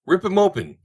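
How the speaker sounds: very high, loud shriek. Acted. Willie to Corson on the bucking horse, shrieking. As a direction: egg the rider on in a shriek. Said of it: "shrieked Willie".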